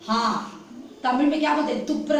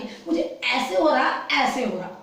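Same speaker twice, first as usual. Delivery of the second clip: put-on whiny sick boy. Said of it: "वो ऐसे ही बोल रहा है कि".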